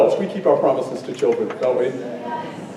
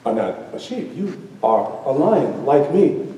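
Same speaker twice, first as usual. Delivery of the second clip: lion correcting the cub; 5 dB quieter than usual. Acted. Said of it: "The lion looks at the cub and says".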